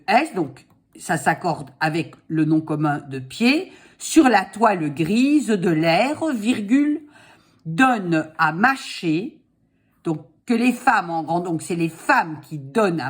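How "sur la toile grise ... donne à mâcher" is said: dictating. Shown as a demonstration. Dictating slowly.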